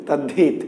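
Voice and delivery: "তদ্ধিত" as tad-dhit, sounds merged; spoken form. Shown as a demonstration. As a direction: join "তদ্ধিত" with doubled d. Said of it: "কিন্তু আমরা উচ্চারণ করি".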